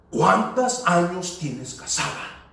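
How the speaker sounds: slow, pointed repeat of the question; a prophet's impatient last asking, lightly voiced; mildly annoyed. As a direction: spell it out, a bit irritated. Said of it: "esta persona como que se molestó un poco".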